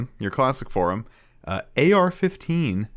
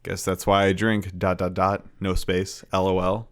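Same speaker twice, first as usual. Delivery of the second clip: deadpan reading; 4 semitones lower than usual. Pretend. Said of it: "Just gonna play it straight".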